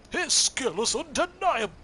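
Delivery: loud, high, booming cartoon hero; Tony the Tiger voice. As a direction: boom it out like a cereal-box tiger. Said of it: "Tony the Tiger-esque voice".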